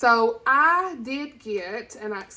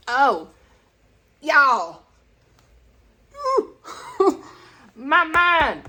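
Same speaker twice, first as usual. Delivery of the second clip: excited gush; 5 semitones higher, 5 dB louder, much slower than usual. Real, not acted. Gushing about Harry Potter audiobook.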